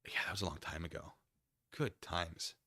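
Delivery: soft fast whisper. Real, not acted. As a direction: breathe it out, fast and hushed. Wistful aside to chat.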